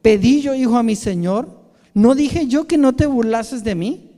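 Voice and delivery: the woman confronts God loudly; loud pleading reproach. Acted. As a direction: cry out the complaint. Woman's plea voiced.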